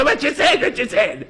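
put-on the same words in a thick Israeli accent. Israeli joking with his friend at shul, in an Israeli accent. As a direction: drop the act, say it like an Israeli. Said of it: "אומר לו".

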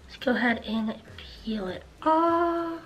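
talking through a face mask; wearing a sheet face mask. Real, not acted. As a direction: lips framed by wet mask. Seen 0: Wet sheet mask covers whole face while talking, peeled off after.

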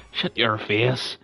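slow, lightly put-on Northern Irish accent. Showing how to slip in, slow Northern Irish accent. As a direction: draw out "shut your face" like a Belfast lad. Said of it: "Northern Irish accent".

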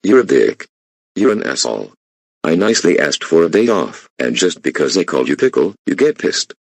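loud angry insults; angry yelling. Acted. Employee yelling insults at the boss, loud and angry.

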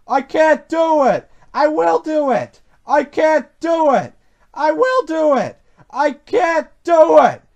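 loud, high alternating engine chant; two straining engines in rhythm; puffing together. A narrator's reading. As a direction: chug between protest and determination. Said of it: "they puffed together".

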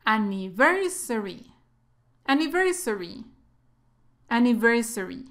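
"Anniversary" with main stress on VER. Shown as a demonstration. Teacher shows where emphasis falls, "Anniversary" stressed on VER. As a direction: say "Anniversary" as an-ni-VER-sa-ry, falling at the end. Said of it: "dónde lleva el énfasis".

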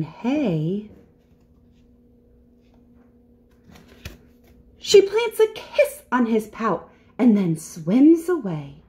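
measured storybook narration with dramatic pauses; story reading with suspense. A narrator's reading. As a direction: build wonder for small listeners. Reads a picture book.

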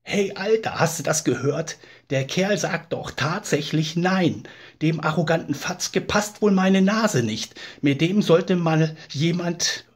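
put-on a drunk taking offence, puffing himself up; loud, high, boozy indignation rising to a shout at Boris; drunken indignation. Drunk indignant at waiter's refusal.

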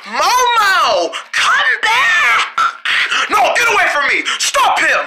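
high urgent yelling; shouting after him. Acted. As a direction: call him back at full volume. Chase, calling after Momo.

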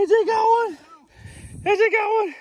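high, loud triumphant call; excited shout. Real, not acted. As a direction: announce it to everyone in earshot. Announcing the catch loudly.

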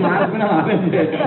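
slow words through a laugh; amused slow chuckle. Real, not acted. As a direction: let a chuckle carry the line. Laughing while quoting cousin.

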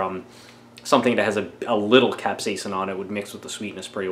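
talking around candy; slightly muffled lips; lollipop in mouth. Real, not acted. Seen 0: Lollipop pressed at mouth throughout, removed by 4.3 s.

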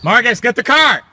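urgent call to Marcus; urgent shout. Acted. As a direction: yell for the getaway car.

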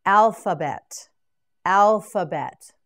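alphabet said slowly and loud, every syllable spelled out; slow model word. Shown as a demonstration. Teacher drills alphabet for students, slowly. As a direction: draw out alphabet for learners. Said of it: "Now you say it".

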